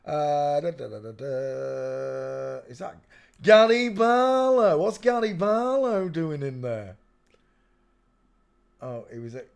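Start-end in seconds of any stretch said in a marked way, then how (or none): 2.7-7.0 high, slow disbelieving cry; surprised. Real, not acted. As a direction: gasp it out in disbelief. Surprised recognition.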